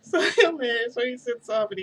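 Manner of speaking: high, loud laugh breaking through. Real, not acted. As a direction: crack up mid-story. Bursts laughing recalling the scene.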